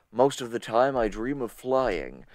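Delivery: a hint of a low smooth voice; lightly voiced suave dreamer; mildly sultry delivery; smooth sexy speaker. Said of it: "smooth and sexy this whole episode".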